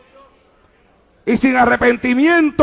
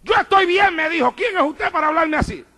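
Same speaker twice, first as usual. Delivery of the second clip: put-on higher, indignant young man; a touch of a proud denial; defiant retort; 5 semitones higher, 3 dB quieter than usual. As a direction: toss it back defensively. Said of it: "iba a aparentar que estaba bien".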